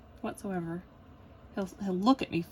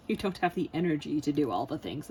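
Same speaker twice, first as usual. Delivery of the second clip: loud mock scolding; voice of depression; 3 semitones lower, 5 dB louder than usual. Depression tells her she lacks energy, scolding loudly. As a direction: lay down the law as depression, hammed-up. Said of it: "my depression kicks in".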